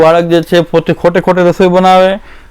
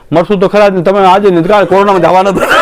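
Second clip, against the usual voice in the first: mock blunt shout; 4 semitones higher, faster than usual. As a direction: bark it out as a tactless know-it-all. Blunt mock rebuke to frightened devotee. (ડરેલા ભક્તને મજાકમાં કઠોર બૂમ)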